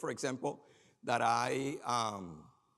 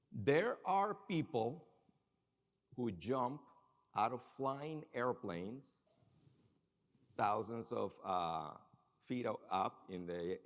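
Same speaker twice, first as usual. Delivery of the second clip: slow teasing build to a puzzle; slow dramatic buildup; slower than usual. Acted. Speaker to audience, slow suspenseful setup. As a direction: draw out each phrase slowly for suspense.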